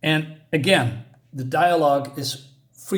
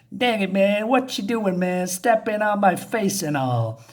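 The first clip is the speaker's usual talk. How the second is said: indignant junkie; 5 semitones higher than usual. Acted. Junkie yelling at perpetrator.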